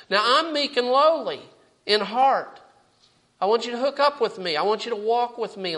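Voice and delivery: fervent preaching. Real, not acted. Preacher urging the congregation to take the yoke, fervent preaching.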